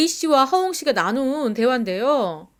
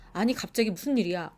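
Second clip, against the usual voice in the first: imitating a calm, softer reply; lightly voiced calm denial, quieter; 4 semitones lower, 6 dB quieter than usual. Boyfriend calmly brushing off his ex's accusation, quiet and calm. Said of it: "굉장히 차분하고".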